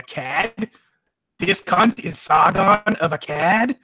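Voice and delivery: put-on slow, weak Australian accent on cad. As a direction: drawl cad the Australian way, lightly. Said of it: "That's my weak Australian attempt".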